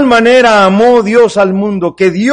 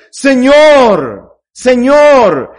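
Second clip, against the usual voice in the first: fervent call to the Lord; 4 semitones higher, 5 dB louder, much slower than usual. Shown as a demonstration. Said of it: "Así nos debemos acercar a Él".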